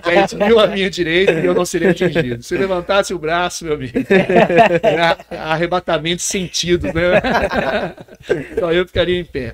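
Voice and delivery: loud, fervent psalm proclamation; proclaiming psalm. Retold or imitated. Pastor proclaiming Psalm 91 to the missionaries, loud and fervent. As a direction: belt it out like preaching from the pulpit.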